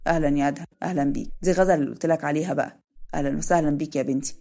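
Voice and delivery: kindly father figure, lightly voiced; lightly voiced shop owner. Shop owner voiced, older man.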